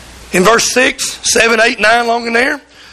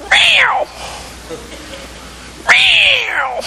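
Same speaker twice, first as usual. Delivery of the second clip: cub's meow. Retold or imitated. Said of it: "and he goes".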